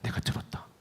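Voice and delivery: God's words, breathed very softly; soft whisper. Acted. God answering Hezekiah in a quiet whisper. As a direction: hush it like a secret answer. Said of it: "하나님의 말씀을 전합니다".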